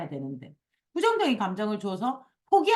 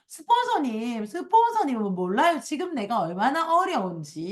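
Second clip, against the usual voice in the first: mock persistent complaining; 3 semitones higher than usual. Member complaining to the sponsor, mock persistent complaining. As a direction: protest to be understood, play-acted. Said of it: "이렇게 계속 얘기".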